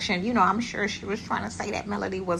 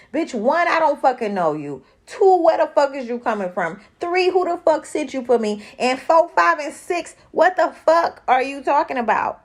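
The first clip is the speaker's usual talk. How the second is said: louder, higher rant, counting off each point; a hammed-up furious rant, building number by number; loud mock tirade; 6 semitones higher, 6 dB louder than usual. Counting off furious rhetorical questions.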